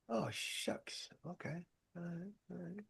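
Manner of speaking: muttered to himself after a dead-end call; deflated. Retold or imitated. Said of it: "you're like".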